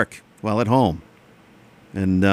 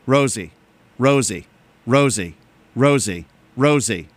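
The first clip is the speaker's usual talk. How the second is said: neighbor at dawn; 3 semitones lower than usual. Retold or imitated. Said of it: "here's an impression of my neighbor".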